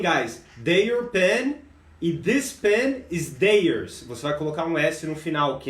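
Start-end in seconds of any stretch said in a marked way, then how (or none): 0.6-4.0 slow teaching demo. Shown as a demonstration. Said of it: "E também tem".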